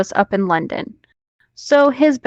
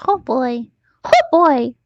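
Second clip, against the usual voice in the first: mock dread; 5 semitones higher than usual. Echoing oh boy, rising.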